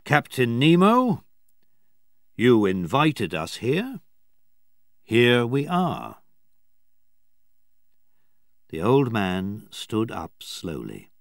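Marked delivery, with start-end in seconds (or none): 0.1-6.2 loud, higher call on Captain Nemo; said loudly. Acted. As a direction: announce yourselves firmly. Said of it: "Cyrus Smith said loudly".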